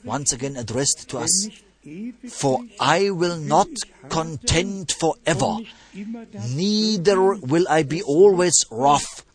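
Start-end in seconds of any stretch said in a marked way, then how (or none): 2.3-9.2 scripture reading. A narrator's reading. Reads scripture to congregation.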